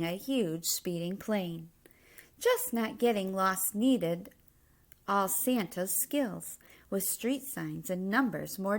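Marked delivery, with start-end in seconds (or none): none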